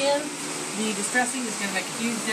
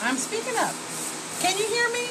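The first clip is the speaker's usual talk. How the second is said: higher, projecting for the viewers; speaking up; 12 semitones higher than usual. Real, not acted. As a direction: raise the voice so it carries. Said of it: "You'll have to speak up".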